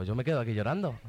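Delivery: a laugh through the words. Retold or imitated. Telling the group how he cried, laughing. Retelling crying at the retreat.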